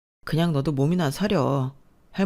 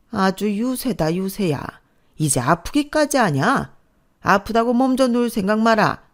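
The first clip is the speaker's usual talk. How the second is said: sneering scold; 3 semitones higher than usual. Acted. Grandmother mocking sick daughter-in-law.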